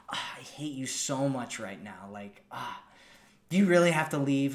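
mock complaint while hugging close; playful tease. Shown as a demonstration. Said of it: "You're like".

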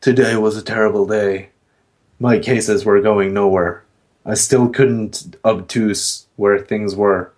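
gloomy hard-boiled narration; noir detective. Pretend. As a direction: brood like a film noir PI. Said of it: "film noir style, and just be like".

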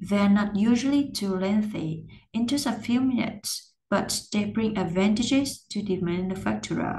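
connected learner reading with lifts on stressed words; careful model reading, pausing at each comma; full practice reading. Shown as a demonstration. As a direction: read phrase by phrase, lifting the stressed syllables. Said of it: "bây giờ mình sẽ đọc".

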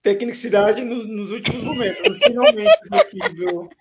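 allergy-roughened honking voice. Real, not acted. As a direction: talk through an allergy-worn honk. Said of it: "peço desculpa pela voz de, de Pato Donald".

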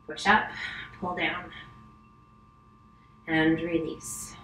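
ordinary delivery

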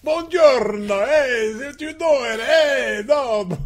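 mock Italian. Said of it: "I'll start out something like that".

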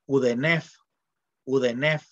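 "udenef" con una E entre D, N y F; pronunciación con E. Shown as a demonstration. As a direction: di "udenef" metiendo vocales E de apoyo. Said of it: "esto se lee". ("udenef", lectura egiptológica convencional)

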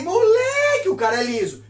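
high yelp of disbelief; amazed shout. Real, not acted. Narrator shouts in disbelief at his friend's nerve.

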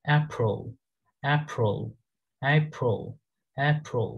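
অ্যাপ্রো with the l nearly gone; British April. Shown as a demonstration. Teacher repeats the British April. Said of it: "ওরকম কিছু একটা হবে".

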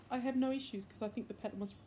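talking through hiccups; hiccuping mid-sentence. Real, not acted. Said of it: "Sorry, I'm hiccuping".

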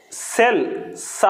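సెల్ said slowly, then its first sound సా; pronunciation demo. Shown as a demonstration. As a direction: isolate the S sound that opens సెల్. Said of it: "pronunciation చేసి చూస్తే".

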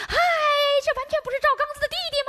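mock bystander voice, high and quick; imitating a passer-by. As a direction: chirp it like a gossiping neighbor. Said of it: "别人就说".

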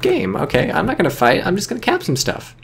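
cocky voice. Pretend. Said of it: "the clown car is just like".

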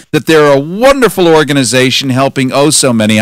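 snide, sardonic mock praise; sarcastic. Real, not acted. Host sarcastically relaying the senator's praise of the agency, snide. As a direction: gush with dry sarcasm. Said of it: "I'm being sarcastic and snide and sardonic".

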